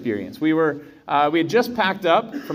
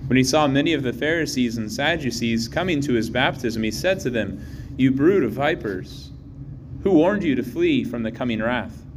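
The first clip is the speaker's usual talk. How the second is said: Gospel reading. Real, not acted.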